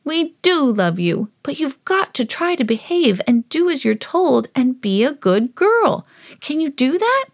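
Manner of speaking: gentle admonishing. Acted. Owner reassures and admonishes dog.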